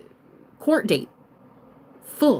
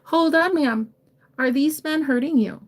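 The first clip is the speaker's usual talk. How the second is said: higher-pitched, concerned check-in; divine masculine rescuer; 5 semitones higher than usual. Acted. Stranger asking an old lady about bullies, in a protective voice. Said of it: "you see a divine masculine at the store".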